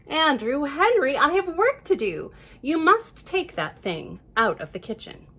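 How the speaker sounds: a hint of a firm mother; lightly voiced busy mom setting a rule. Mother to Andrew Henry, lightly firm. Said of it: "she said to him firmly".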